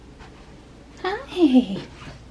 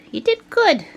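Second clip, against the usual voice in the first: pet talk; 3 semitones higher than usual. Real, not acted. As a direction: bounce it up brightly. Praising the cat higher.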